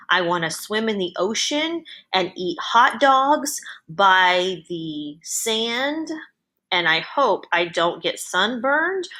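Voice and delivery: measured dictation into the microphone; dictating. Shown as a demonstration. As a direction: read it out clearly for voice typing. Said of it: "I'm gonna try to do the same sentences".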